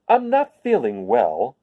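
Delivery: lightly smiled slow scarecrow line; smiling scarecrow. Acted. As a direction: say it through a smile. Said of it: "with a smile".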